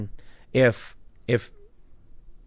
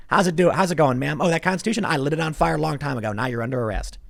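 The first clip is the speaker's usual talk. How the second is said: higher-pitched mock Southern cop; southern accent; 4 semitones higher than usual. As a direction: put on a folksy Southern accent, playing a big city cop. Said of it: "I did a southern accent for New Jersey".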